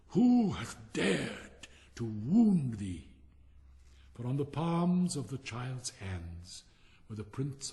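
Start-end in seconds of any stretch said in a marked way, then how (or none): 0.1-3.1 angry giant. Acted. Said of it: "his face grew red with anger".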